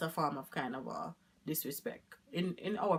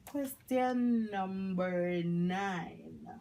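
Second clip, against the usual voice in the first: whispered, very slow reading of the question; much slower than usual. Real, not acted. Whispering while reading the next question.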